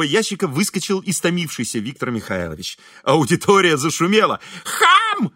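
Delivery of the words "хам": shrill yelled insult, much higher; shouting. A narrator's reading. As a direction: shout it after the procession. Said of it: "закричал Виктор Михайлович".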